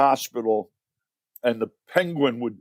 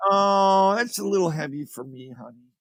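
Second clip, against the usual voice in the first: higher mock wife voice; husband imitates his wife's question in a higher voice; mimicking his wife; 4 semitones higher than usual. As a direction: play the wife, pitched up and light. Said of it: "She goes".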